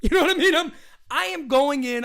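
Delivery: high, loud excited laugh. Real, not acted. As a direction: laugh it out, thrilled. Laughing excitedly about signings.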